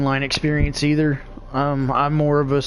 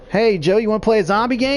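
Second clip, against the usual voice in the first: higher, chirpy mock invitation; eager pestering friend; 6 semitones higher, faster than usual. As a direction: bug your buddy over and over, higher. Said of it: "and he's like".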